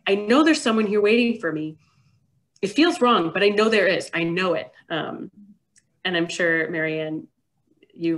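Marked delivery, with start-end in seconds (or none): 0.1-4.7 acted insistent parent. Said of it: "So it's like".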